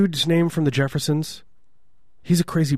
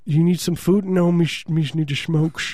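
hammed-up French accent, pitched higher; 5 semitones higher than usual. Host mocking chain-smoking French musicians, hammed-up French accent. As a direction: stumble through it in mock French. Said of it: "that's a great French accent".

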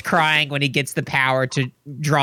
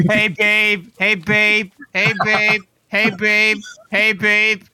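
a lightly raised, smarmy pickup line, over and over; looped mock bar-flirt greeting; dude at a bar; 4 semitones higher, slower than usual. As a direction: hit on her like a guy at a bar. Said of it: "dude at a bar".

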